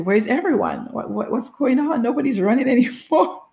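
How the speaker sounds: puzzled act that breaks into laughter; retold bewilderment. Runner wondering where the other runners went, bewildered.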